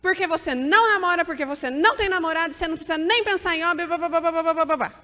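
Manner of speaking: a hammed-up strict mother laying down the law; strict nagging mom. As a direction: forbid dating outright. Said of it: "a mãe age muito do contrário".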